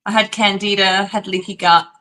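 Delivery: Australian vowels on gut; Australian speaker saying gut; Aussie accent. Real, not acted. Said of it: "so you must have said gut".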